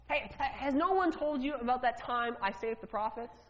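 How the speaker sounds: acted worry, pitch normal; a nervous question, only a touch of fear; mild fear. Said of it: "Can you hear the fear in his voice?".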